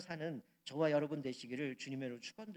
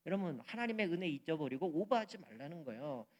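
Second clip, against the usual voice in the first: normal talking voice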